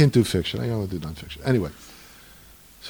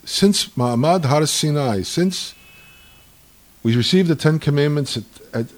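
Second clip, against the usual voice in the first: defiant proclamation; 5 semitones higher, 11 dB louder than usual. Retold or imitated. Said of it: "looks up at heaven and says".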